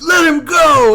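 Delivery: high, loud imitation of a yelling coach; coach's shouted order. Coach ordering wrestler to release opponent, insistent shout. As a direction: holler it like a coach from matside. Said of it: "He goes".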